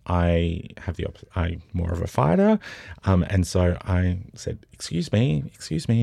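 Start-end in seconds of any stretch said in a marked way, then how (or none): 4.7-6.0 higher-pitched challenge, not shouted; mock call for attention; retold calling out. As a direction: imitate calling after someone at normal volume. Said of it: "And I called out".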